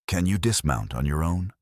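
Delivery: gentle, caring question. Acted. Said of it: "he asked gently".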